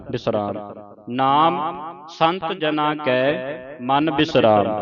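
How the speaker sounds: measured Gurbani reading, phrase by phrase; slow, deliberate reading with drawn-out final vowels; scripture recitation. Shown as a demonstration. (ਠਹਿਰਾਅ ਨਾਲ ਗੁਰਬਾਣੀ ਸੰਥਿਆ ਪਾਠ)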